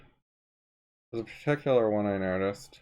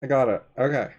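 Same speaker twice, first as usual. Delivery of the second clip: muffled, talking behind a mask; through a face mask; 4 semitones higher, 6 dB louder than usual. Real, not acted. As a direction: speak through a cloth mask. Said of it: "I will talk through a mask".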